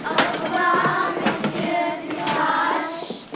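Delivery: slow singsong pupils' goodbye; class farewell. Acted. Pupils dismiss French teacher, singsong chorus. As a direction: chant it dutifully, drawn out.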